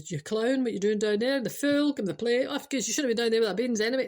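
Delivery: lightly exasperated parental telling-off; acted quick-fire scolding; mock scolding. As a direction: tell off a clumsy child, half in earnest.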